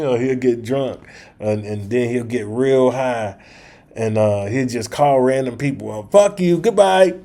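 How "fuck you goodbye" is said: higher, louder brash sign-off; hammed-up rude goodbye; mock drunken outburst. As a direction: bark it out like a drunk hanging up. Friend drunk-dials and hangs up.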